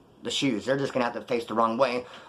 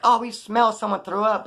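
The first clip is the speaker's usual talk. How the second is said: higher, slow, drawn-out mock accusation; mock friends sniffing; 8 semitones higher, 4 dB louder than usual. Friends in the car suspect someone, slow mock sniffing. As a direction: sniff the air suspiciously, slowly.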